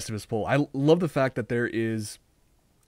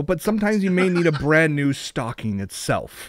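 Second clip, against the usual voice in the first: salesman pitch for stockings, slower in places; deadpan infomercial spiel; mock ad read; slower than usual. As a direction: sell it like a TV commercial.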